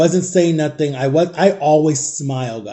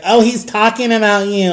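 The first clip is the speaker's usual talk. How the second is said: gossipy neighbors; 4 semitones higher than usual. Retold or imitated. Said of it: "neighbors that were so gossipy".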